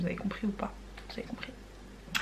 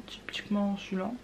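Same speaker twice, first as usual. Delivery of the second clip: whisper; 8 dB quieter, faster than usual. Real, not acted. Chuchote en choisissant le pinceau.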